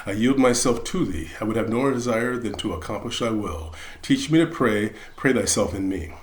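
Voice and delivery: calm, reverent prayer; prayer recitation. Acted.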